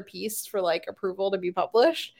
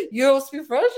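louder, higher mock French accent; 4 semitones higher, 5 dB louder than usual. Friend repeating the actor's funny answer, mock French accent. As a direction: imitate a French accent, pitched up in amusement. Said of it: "in a French accent".

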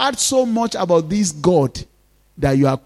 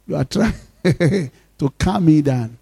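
laughing through quote; 4 dB quieter than usual. Retold or imitated. Wife's calming words, laughing.

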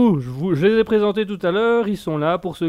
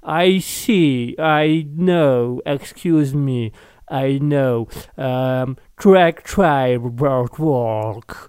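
drawn-out, deliberately clumsy English accent; bad English accent; 2 semitones lower, much slower than usual. Shown as a demonstration. Host showing off his dreadful English to listeners, bad English accent. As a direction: say it slowly in a terrible English accent. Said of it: "ça c'est avec mon accent anglais".

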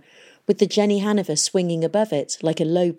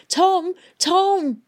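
high, loud calling out; shouting; 13 semitones higher, 3 dB louder than usual. A narrator's reading. Hester shouting up to Tom in the airship. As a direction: shout to be seen. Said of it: "waving both arms and shouting".

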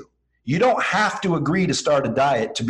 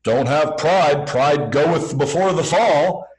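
slow, louder preachy warning; preachy scold; 3 dB louder, slower than usual. Retold or imitated. Mimicking people who scold about pride. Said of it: "People say".

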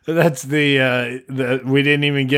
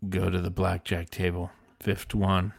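voice from heaven; 5 semitones lower, 4 dB quieter than usual. Acted. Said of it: "a voice from heaven".

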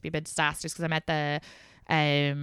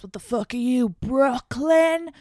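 higher, mock-angry drunk sneer; drunk ex's outburst; 6 semitones higher, 4 dB louder, slower than usual. Drunk ex mocking her over the phone, mock angry. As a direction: play the hammered ex scoffing down the phone.

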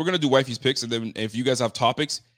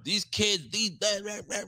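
higher voice, lightly mocking; a hint of a frazzled mother; mock fed-up wife; 9 semitones higher, slower than usual. Husband imitating wife's rant about kids, higher mocking. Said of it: "she was done".

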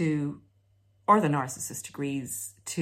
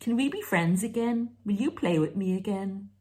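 put-on higher, wheedling child asking to play; childish plea; 3 semitones higher than usual. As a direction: ask like a small child wanting a playmate.

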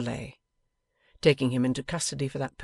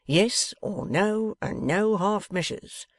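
threatening; 6 semitones higher, 3 dB louder, slower than usual. A narrator's reading. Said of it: "in a threatening and alarming manner".

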